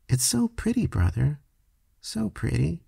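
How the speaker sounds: soft, high, tearful murmur of wonder; a little boy moved to tears by beauty; child near tears in the swamp; teary awe. A narrator's reading. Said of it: "He began to cry".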